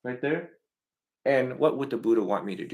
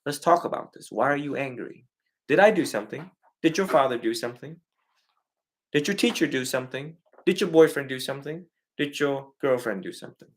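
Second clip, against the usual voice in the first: gentle American parent; 3 semitones higher than usual. Retold or imitated. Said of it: "Americans like".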